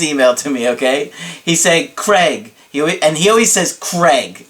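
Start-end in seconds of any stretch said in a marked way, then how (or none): 1.9-2.5 drawn-out, punchy name call; dramatic client impression. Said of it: "he's always really dramatic when he says my name". 3.8-4.5 emphatic, drawn-out name call; dramatic client impression. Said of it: "he's always really dramatic when he says my name".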